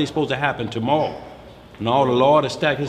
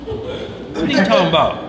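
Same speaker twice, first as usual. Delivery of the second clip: put-on doubtful old woman. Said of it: "She said".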